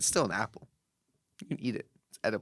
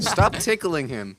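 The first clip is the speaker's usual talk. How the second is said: loud scolding; 3 semitones higher, 5 dB louder, slower than usual. Real, not acted. Telling someone off loudly.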